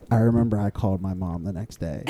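breaking into laughter mid-sentence; giggling through the words; laughing while talking. Real, not acted. Laughing while telling story.

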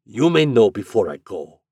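gruff, ill-suppressed passion. A narrator's reading. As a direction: answer gruffly with passion held down. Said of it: "returned the other gruffly".

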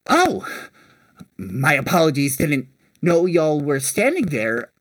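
lightly voiced older kobold merchant; apologize, then make a sales pitch, lightly in character; older kobold proprietor. Kobold seafood seller recruiting strangers, lightly acted merchant pitch. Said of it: "The older one looks at you and goes".

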